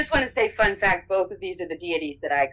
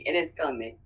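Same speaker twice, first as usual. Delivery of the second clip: softer, lower, confiding; hushed confession; 4 semitones lower, 7 dB quieter, faster than usual. Real, not acted. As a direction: admit it quietly, like a secret. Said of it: "It, it is still in me".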